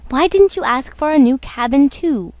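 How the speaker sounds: nagging the husband, a touch of temper; mildly angry. Acted. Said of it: "his wife said angrily".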